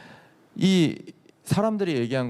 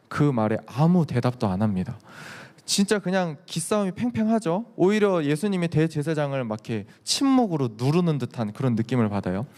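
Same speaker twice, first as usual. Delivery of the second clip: ordinary talk, nothing marked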